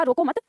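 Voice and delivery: "रोको मत" as one unit, then stop; pause after मत. Shown as a demonstration. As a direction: run रोको into मत and halt. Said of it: "यहाँ पे विराम चिन्ह लगाया".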